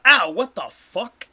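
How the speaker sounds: loud, sudden pained yelp; startled yelp. Acted. Invisible man yelps, GM voices him.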